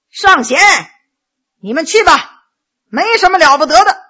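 calling out. Acted. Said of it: "高声叫了一声".

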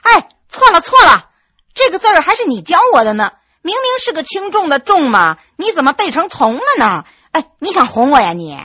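put-on young wife scolding her husband's slip; correcting him. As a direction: catch him out sharply, half playful. Wife catches husband's mistake.

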